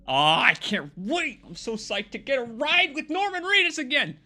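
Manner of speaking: over-the-top giddy fan voice. Pretend. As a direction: squeal it like a starstruck fan. Gushing over the game's ride.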